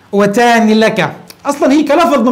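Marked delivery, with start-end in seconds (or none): 0.1-1.1 وتان لك said slowly, syllable by syllable; slow wrong form. Shown as a demonstration. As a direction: drag out the forbidden وتان لك. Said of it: "ولا يجوز أن تقول".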